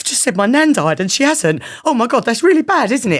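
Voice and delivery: mock very high, loud, flustered panicky blurt. Retelling a girl running out after lying that her nan died, imitating her panic. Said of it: "like really panicky".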